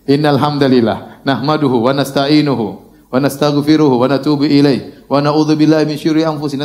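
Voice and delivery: low, measured recitation on a level tone; steady Arabic khutbah opening; Arabic sermon-opening recitation. Acted. Repeats the recited formula.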